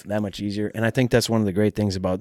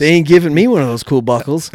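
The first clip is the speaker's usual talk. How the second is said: mock indignant; 7 semitones higher, 10 dB louder than usual. Mock complaint, loud and high.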